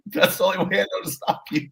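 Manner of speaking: cheery British partner greeting a colleague; mock British accent. British partner answering her colleague, breezy mock British. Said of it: "and she's British".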